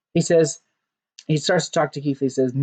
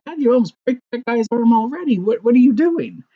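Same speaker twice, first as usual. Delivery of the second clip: high, louder exasperated outburst; mock exasperated; 8 semitones higher, 3 dB louder than usual. Podcaster mocking his own reaction, exasperated. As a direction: throw up your hands at the brutality.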